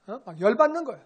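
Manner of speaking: usual speaking voice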